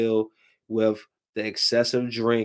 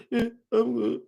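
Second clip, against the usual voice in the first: lightly voiced small child; 10 semitones higher than usual.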